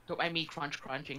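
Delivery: talking while eating popcorn; words around a mouthful of popcorn; munching popcorn. Real, not acted. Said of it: "Oh, I'm still eating dinner".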